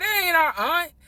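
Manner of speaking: put-on very high, loud blurted outburst. Retelling what Chris said on the phone, imitating Chris talking loud. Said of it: "So he was just loud".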